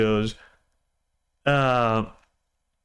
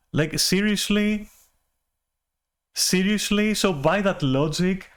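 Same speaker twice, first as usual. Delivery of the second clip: incredulous; 6 semitones higher than usual. Real, not acted. Incredulous at his excuse.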